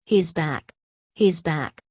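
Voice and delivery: screamed alarm. A narrator's reading. Dunbar screaming his warning to the ward, mild shrill yell. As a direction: cry it out in narrated panic. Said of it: "Dunbar screamed".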